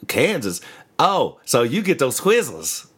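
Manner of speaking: lightly imitated Australian bloke, curious; Australian accent. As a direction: retell it in a mock Australian accent. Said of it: "One of those dudes from Australia".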